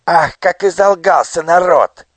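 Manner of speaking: high, loud, wry squeak; sneering minister. A narrator's reading. Nushrok sneers at the lying people. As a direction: curl your lip and squeal. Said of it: "покривил губы Нушрок".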